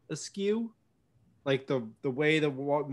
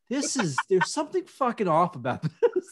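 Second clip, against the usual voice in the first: mock-puzzled line broken by a laugh; giggling at the crooked map; 6 semitones higher, 5 dB louder than usual. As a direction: play it bemused while laughing through it. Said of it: "I'm just like".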